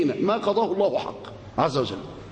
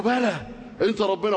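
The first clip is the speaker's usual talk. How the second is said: willing assent. Acted. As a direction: imitate someone gladly consenting. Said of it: "انشرح صدره قال له". (موافقة بصدر منشرح)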